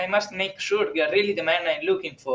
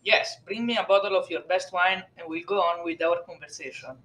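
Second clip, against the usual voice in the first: put-on softly spoken priest with an Italian accent; pronounced Italian accent; 6 dB quieter than usual. A narrator's reading. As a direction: speak quietly in a thick Italian accent. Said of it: "in a pronounced Italian accent".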